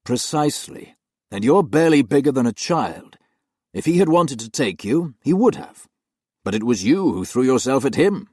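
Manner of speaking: loud, cold and condemning; harshly. Acted. Master dismisses the nanny in disgrace, harsh and loud. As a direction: pass judgement without mercy. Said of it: "he said harshly".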